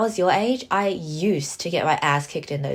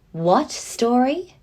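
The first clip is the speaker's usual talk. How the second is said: "What story?" rising slowly, louder and higher; disbelieving rising question; 5 semitones higher, 4 dB louder, much slower than usual. Acted. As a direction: stretch it out in disbelief. Repeated in disbelief.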